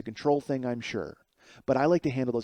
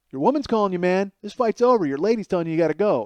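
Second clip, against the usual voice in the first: higher, louder mock jeer; mocking taunt; 3 semitones higher, 4 dB louder than usual. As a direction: taunt him like a bully. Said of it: "it's very much".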